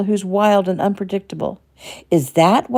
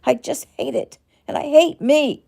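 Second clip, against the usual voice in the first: higher and louder, spilling over in rage; shouting; 7 semitones higher, 4 dB louder than usual. Acted. Shelley raging at her own weakness in therapy, shouting. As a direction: shout it at yourself, furious. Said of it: "Shouting now".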